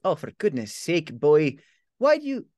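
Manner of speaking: aunt snapping at her silent nephew; exasperated aunt. Acted. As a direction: cut off mid-scold.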